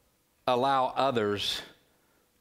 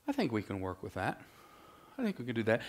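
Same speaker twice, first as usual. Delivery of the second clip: whispered scheming aside; conspiratorial whisper; sly whisper; 6 dB quieter, much faster than usual. Retold or imitated. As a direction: hush it like a schemer counting gains. Laban scheming, voiced aside.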